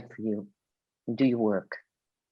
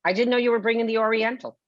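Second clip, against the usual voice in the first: 1 line from the show; 6 semitones higher, 4 dB louder than usual. Acted. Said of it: "This is the line from the show".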